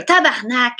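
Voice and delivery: Québécois curse pushed out; mock outburst on a stubbed toe; mock pained swearing. Stubbing a toe on the door, mock pained curse. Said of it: "ça se peut que je pousse".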